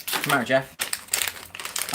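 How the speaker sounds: very slow whispered come here; teasing whisper to the troll; mock whispered coax. Real, not acted. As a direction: draw him in with a creepy hush. Mock tender call to troll.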